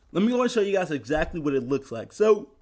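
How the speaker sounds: talking through a yawn; tired, half-yawned words. Real, not acted. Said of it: "sorry for the yawning".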